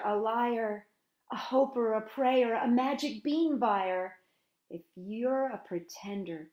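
storytime poem, read warmly; poem reading to children. Acted. Librarian reads a poem to children at story time. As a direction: read it like inviting kids to the fire.

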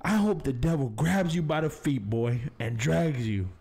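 a hint of a grim grandma curse; mock-serious old lady warning; stern grandma. Grandma curses the boy, lightly voiced grim warning. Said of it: "looked at me very seriously".

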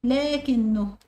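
"لكنه" with a long aa after the l; sounded alif. Shown as a demonstration. Teacher checking the word list, "لكنه" with its alif sounded long. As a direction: hold the unwritten alif in "لكنه". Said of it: "الألف برضو تنطق ولا تكتب".

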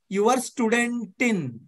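ordinary delivery

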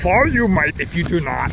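creaky sage with inverted phrasing; wise old master voice. Acted. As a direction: warn like an ancient teacher. Dad plays wise old master.

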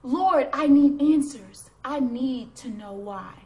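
loud, slow demand that drops at the end; insistent, affronted plea; indignant. Acted. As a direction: demand it of God, hitting the first words hard. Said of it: "My indignant reply".

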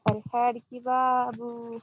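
slow, drawn-out call at normal pitch; easy, stretched-out herding words; gentle coaxing. Real, not acted. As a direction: coax the animal along without shouting. Coaxing the animal after shouting.

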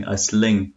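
"sling" with an s-l opening; slurred cluster, "sling" with s in place of k; clean heard as sling. Shown as a demonstration. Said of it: "nó nghe thành như sling".

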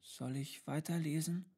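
put-on high child's question, rising at the end; tentative child. A narrator's reading. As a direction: ask carefully in a child's voice. Child asks silent tutor. (vorsichtige, hohe Kinderfrage)

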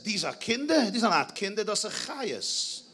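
indignant landlord. Retold or imitated. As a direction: retell an outraged old man's protest. Old landlord's outraged quote in story.

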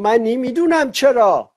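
slow, drawn-out Isfahani accent, lightly imitated; a hint of an Isfahani accent, unhurried; a singer's Isfahani accent. Host quoting a comedian's Isfahani catchphrase, light Isfahani accent.

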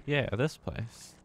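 slow, flat, defeated sigh; resigned. Real, not acted. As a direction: accept it with weary dread. Resigned answer to own question.

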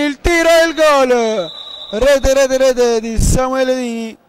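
rising goal call; breathless italian goal commentary. Real, not acted. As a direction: cry out the goal. Live goal call in match.

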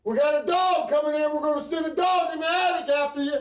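shouting. Real, not acted. Calling the suspect down from the attic.

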